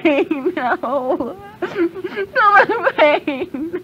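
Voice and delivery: slow crying moan; sobbing lament. Real, not acted. Demon lamenting the pain of hell, slow sobbing. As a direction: drag out the pain.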